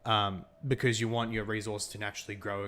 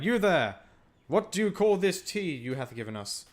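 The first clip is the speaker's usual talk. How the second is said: put-on hammy old-fashioned English gentleman, higher and louder; pompous British colonist; 8 semitones higher, 6 dB louder than usual. British colonist demanding the tea's name, in a hammy posh voice. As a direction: play it up as a stuffy British officer.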